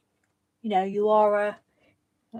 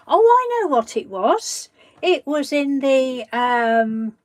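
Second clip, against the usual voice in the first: high, loud burst of remembering; sudden recall; 3 semitones higher, 5 dB louder than usual. Real, not acted. Suddenly remembering the answer for the chat, excited. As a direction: blurt it out as it comes back.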